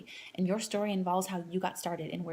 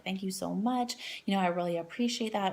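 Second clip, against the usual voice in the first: sincere thanks. Shown as a demonstration. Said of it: "I want you to say something like".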